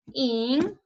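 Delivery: Insignia split into in, sig, nia with long pauses; syllable by syllable. Shown as a demonstration. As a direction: dictate Insignia as three isolated syllables. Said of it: "Separemos insignia".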